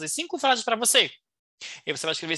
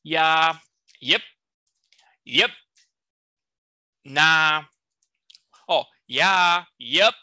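casual Californian; 3 semitones lower, 6 dB louder, much slower than usual. Shown as a demonstration. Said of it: "Se for da Califórnia".

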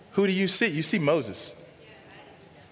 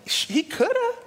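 squeaky aside. Acted. Quick high aside.

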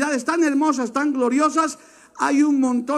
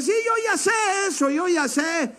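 mocking know-it-all; 6 semitones higher, 4 dB quieter than usual. Preacher mocks a know-it-all hearer.

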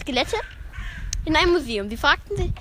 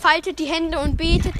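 higher-pitched mock church chant; priest's sing-song call; 4 semitones higher, 4 dB louder than usual. Priest telling the congregation to pray, chanting. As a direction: intone it like a priest.

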